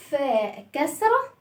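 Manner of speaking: "فاء كسرة" drawn out very slowly. Shown as a demonstration. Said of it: "repeated slower".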